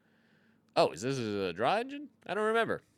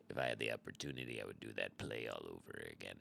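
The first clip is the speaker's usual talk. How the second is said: deep dramatic voice; 16 dB quieter, faster than usual. Pretend. Proud of past play.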